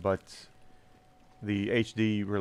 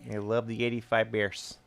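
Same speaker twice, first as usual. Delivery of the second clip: put-on thick Chicago Bears fan accent. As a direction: hold the Chicago superfan voice. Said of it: "this accent".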